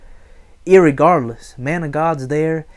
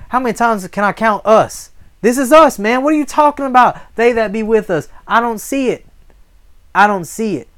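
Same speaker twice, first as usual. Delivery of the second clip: high, loud, exasperated protest; incredulous young man; 7 semitones higher, 5 dB louder than usual. Acted. Young servant doubting the prophet's count, incredulous. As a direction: argue back in baffled disbelief. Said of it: "Young man's looking like".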